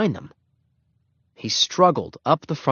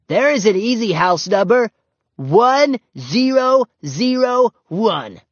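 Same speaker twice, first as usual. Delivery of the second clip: put-on high, very slow, proud little girl; companionable little girl; 11 semitones higher, 7 dB louder, slower than usual. A narrator's reading. Ramona proudly reading a house number to Henry, slow and friendly. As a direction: spell out the number slowly, proud of yourself. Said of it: "Ramona said companionably".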